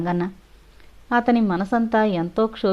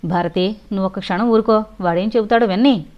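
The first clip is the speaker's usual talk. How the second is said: stern, raised voice to silence her; husband cutting off his wife, half shouting; near shout. Acted. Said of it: "గట్టిగా అరిచినట్లు అన్నాడు".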